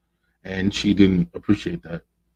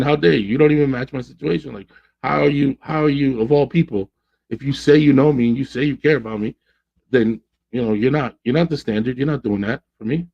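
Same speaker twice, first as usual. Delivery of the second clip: higher-pitched, affronted scolding; imitated outrage, more pleading than shouting; retold indignation; 5 semitones higher than usual. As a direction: act out a hurt friend laying into him. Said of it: "It was a mixture of angry, upset, hurt".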